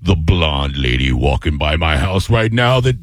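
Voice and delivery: slow, deep spooky announcer; haunted house voice. Retold or imitated. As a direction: taunt the neighbor like a ghost host. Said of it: "and I'll be like".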